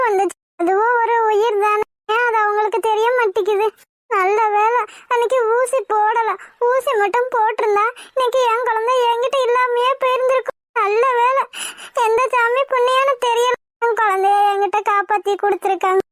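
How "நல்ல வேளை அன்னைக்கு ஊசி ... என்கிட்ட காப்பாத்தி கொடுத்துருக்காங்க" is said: tearful relief. Acted. Relieved mother weeping over baby.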